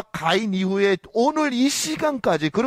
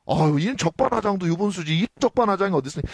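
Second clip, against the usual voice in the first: brazen retort. Retold or imitated. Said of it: "하나님한테 도리어 따져요".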